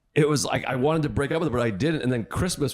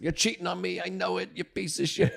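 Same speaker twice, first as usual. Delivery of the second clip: mock accusing girlfriend; 9 semitones higher, 5 dB quieter than usual. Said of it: "She was Italian".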